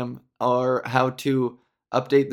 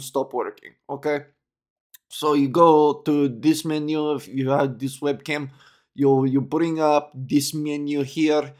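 put-on Russian accent; 2 semitones lower than usual. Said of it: "some Russian guy".

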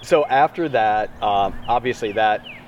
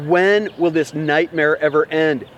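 Mary's anguished thought; 4 semitones higher, 3 dB louder than usual. Retold or imitated. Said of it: "she's gotta be thinking".

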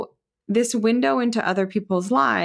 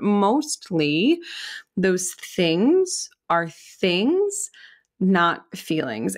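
slow and emphatic; much slower than usual. Real, not acted. Slowed emphatic point.

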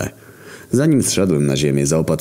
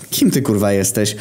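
put-on drunk girl; 7 semitones higher than usual. A narrator's reading.

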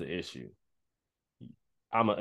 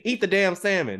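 high-pitched, fed-up order as God; mock exasperated yell; 8 semitones higher, 3 dB louder than usual. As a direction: play God losing patience, voice raised in pitch. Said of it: "he gotta yell at me".

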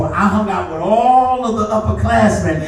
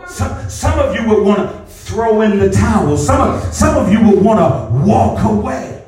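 emphatic preaching with stretched-out key words. Real, not acted. Pastor telling congregation about facing their reality, emphatic preaching. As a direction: drive each phrase home to the congregation.

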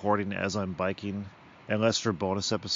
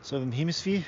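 Australian accent; 3 semitones higher than usual. Shown as a demonstration. Naming where his accent is from, mock Australian. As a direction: say "Hemisphere" with no final r, mock Australian. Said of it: "A little Australian".

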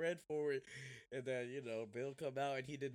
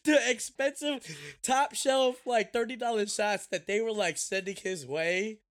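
high, loud, laughing delivery; laughing while talking; 10 semitones higher, 9 dB louder than usual. Real, not acted. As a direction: push the words out through laughter. Laughing while telling punchline.

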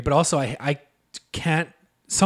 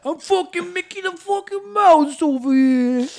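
squeaky mouse, swearing for laughs; Mickey Mouse; 11 semitones higher, 5 dB louder than usual. Retold or imitated. Answering his friend with a cursing Mickey Mouse. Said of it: "what's Mickey Mouse sound like".

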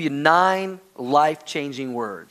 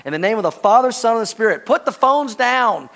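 raised, forceful preacher's command; mock-divine command; 5 semitones higher, 4 dB louder than usual. Preacher jokingly invokes God against phones at dinner, loud command. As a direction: proclaim it loudly, slowing on the last words. Mock-solemn pronouncement to the congregation.

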